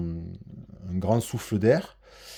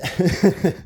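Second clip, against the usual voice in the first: breathless laugh; 7 semitones higher, 3 dB louder than usual. Real, not acted. Laughs after failed breath hold.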